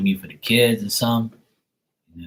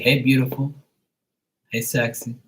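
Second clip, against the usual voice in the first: flirty greeting; 4 semitones higher than usual. Pretend. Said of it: "I'll be like".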